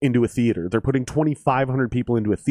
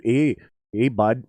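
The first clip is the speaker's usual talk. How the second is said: lightly put-on Minnesotan accent; a hint of Minnesotan in a friendly call-out; slower than usual. Shown as a demonstration. Bandmate showing how Minnesotans talk, light Minnesotan accent. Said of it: "to have a Minnesotan accent".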